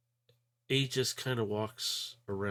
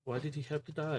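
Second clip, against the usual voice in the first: grieving cry; 6 semitones higher, faster than usual. Acted. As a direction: beg the answer through tears. Addie grieving her lost friend.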